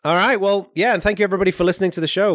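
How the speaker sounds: bright, lifted host voice; upbeat host outro. Acted. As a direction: sign off cheerfully to listeners. Upbeat show outro thanks.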